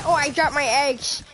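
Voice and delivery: lightly voiced cartoon kid; a hint of a slushy-mouthed kid; cartoon kid imitation. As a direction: quote the cartoon kid, mildly mimicking. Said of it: "Do you know the kid that says".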